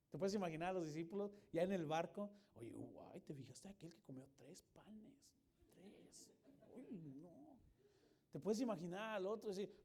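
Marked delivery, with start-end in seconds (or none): 2.5-7.6 much softer, lower gossiping disciple voice; hushed gossip. Pretend. Disciple gossiping to another in the boat, hushed and lower. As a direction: lean in and murmur the scandal.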